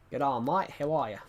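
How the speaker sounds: put-on light Australian accent, barely shifted; a casual Aussie greeting in an Australian accent. Greeting a South Australian player in a light Australian accent. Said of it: "Is my Australian accent good?".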